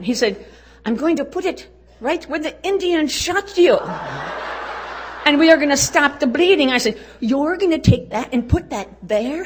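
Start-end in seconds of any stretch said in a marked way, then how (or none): 0.8-6.7 voicing the doctor. Voicing the man treating her. 7.2-9.4 disbelief. Retold or imitated. Retold disbelief at treatment.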